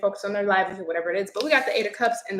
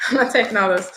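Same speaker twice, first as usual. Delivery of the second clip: laughing it off, louder; laughing refusal; 5 dB louder than usual. Real, not acted. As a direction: say it through a laugh.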